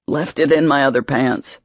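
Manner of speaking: wheezing. Acted. Patrick answering Emma from the floor, wheezing. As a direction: squeeze it out short of air. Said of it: "he wheezed".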